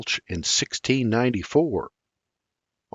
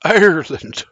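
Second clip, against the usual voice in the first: delighted; 6 semitones higher, 4 dB louder than usual. Acted. Delighted at the Irish news.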